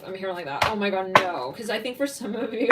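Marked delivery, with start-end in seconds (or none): none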